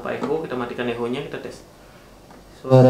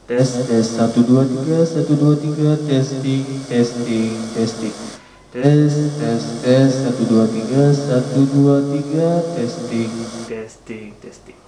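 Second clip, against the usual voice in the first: mic test through heavy echo; counting into a reverberant speaker; cathedral echo. Shown as a demonstration. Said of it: "Eh, tes echo-nya ya".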